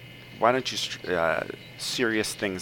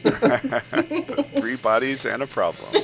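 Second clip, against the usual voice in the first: slow, laughing retitle of the book; amused slow laughing delivery; 4 semitones higher, 6 dB louder, slower than usual. Real, not acted. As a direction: chuckle through the words.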